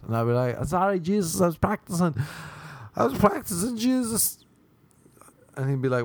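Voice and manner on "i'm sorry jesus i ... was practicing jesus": high, pleading apology to Jesus; sheepish apology. Acted. Caught by Jesus, squeaking a sheepish sorry. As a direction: squeak out an embarrassed excuse.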